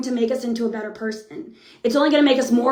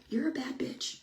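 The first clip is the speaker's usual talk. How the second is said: much softer, under the breath; hushed swearing; 15 dB quieter than usual. Real, not acted. Speaker admits she dislikes using that word, hushed swearing. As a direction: slip the swear in quietly.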